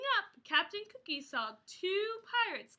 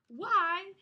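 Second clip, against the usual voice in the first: higher, louder, slowed dismay; cry of dismay; 4 semitones higher, 6 dB louder, slower than usual. Acted. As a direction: cry out at the ruined sword. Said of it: "cried the captain".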